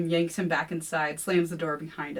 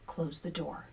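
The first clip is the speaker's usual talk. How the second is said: softer hissed order; hissing; 8 dB quieter than usual. A narrator's reading. William hissing at Kevin, soft urgent order. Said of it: "William hisses".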